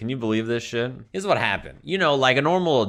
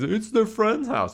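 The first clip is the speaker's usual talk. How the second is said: high, drawn-out mocking voice; scornful mimicry, slow and pitched up; mocking the dad; 10 semitones higher, slower than usual. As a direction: parrot his excuse in a silly high voice. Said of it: "This fucking guy thinks he's".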